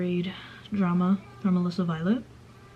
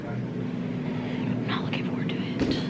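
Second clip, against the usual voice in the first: breathy whispered aside; 4 dB quieter, slower than usual. Real, not acted. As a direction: whisper it reluctantly. Muttered aside about homework.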